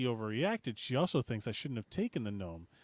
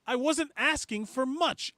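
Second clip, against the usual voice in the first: mock outrage; 11 semitones higher than usual. Reading post with exclamation point.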